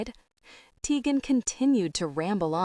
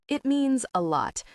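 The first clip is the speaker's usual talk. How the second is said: talking through a mouthful of popcorn; mouth full; 7 semitones higher than usual. A narrator's reading. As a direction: say it round a mouthful of food. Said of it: "with her mouth full of popcorn".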